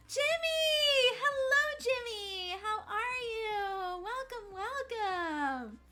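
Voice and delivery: high, loud, drawn-out greeting shout; excited welcome. Real, not acted. Streamer welcoming viewer Jimmy into chat, big excited shout.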